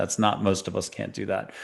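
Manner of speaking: usual speaking voice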